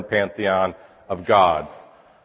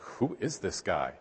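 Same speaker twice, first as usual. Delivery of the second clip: awed; 4 semitones lower, 15 dB quieter, slower than usual. Pretend. Disciples stunned by the calm.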